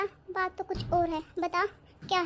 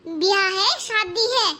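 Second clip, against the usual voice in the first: angry scolding; 5 dB louder than usual. Acted. Bhabhi scolding sister-in-law.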